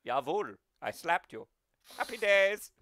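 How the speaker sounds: put-on light German-accented villain; petulant little German tyrant; All for One. King of darkness complaining, light German accent. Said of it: "light-voiced German".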